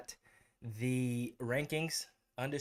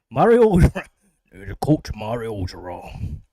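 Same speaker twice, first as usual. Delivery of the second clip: loud name read from chat; loud call-out; 13 dB louder than usual. Real, not acted. Reading a chat name aloud.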